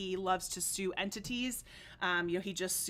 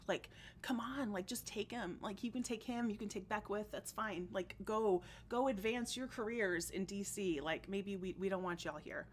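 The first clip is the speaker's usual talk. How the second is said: softer, half-whispered aside; quiet aside; 5 dB quieter than usual. Real, not acted. Telling chat Rokita should go in a soft, half-whispered aside. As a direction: mutter it like a conspiratorial aside to chat.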